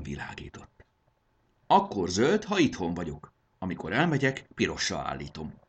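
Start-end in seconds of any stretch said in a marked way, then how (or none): 1.7-5.5 explaining. Acted. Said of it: "magyarázta Jakab".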